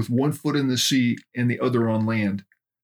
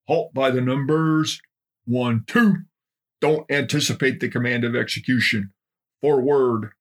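parade-ground yell at a confused private; drill instructor shouting. Acted. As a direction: bark orders at clumsy recruits. Drill instructor barking at recruits.

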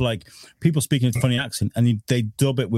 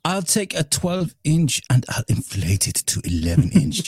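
dubbed voice; 4 semitones higher than usual. Acted. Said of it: "mock dubbed balloon lover".

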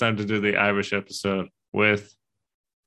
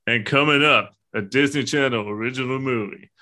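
TV announcer. Retold or imitated. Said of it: "and just be like".

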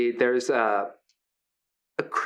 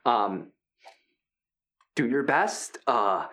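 friendly hulking Brutus. Acted. Big gentle wrestler Brutus welcoming the new fighters, upbeat. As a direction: play the big guy as sweet and encouraging.

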